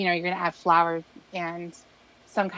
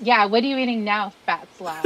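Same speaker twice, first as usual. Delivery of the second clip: louder teasing jab; louder mock taunt; 7 dB louder than usual. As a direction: bellow the insult playfully. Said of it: "I can never get away with anything".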